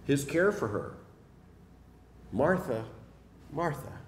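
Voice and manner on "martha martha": affirming, caring. Shown as a demonstration. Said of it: "Jesus affirms Martha here".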